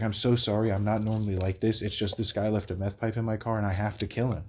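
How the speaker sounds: level, composed imitated apology; lucid, sincere. Crackhead apologizing at another car, lucid and composed. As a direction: explain it evenly, as if perfectly reasonable. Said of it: "he would just say that shit lucid".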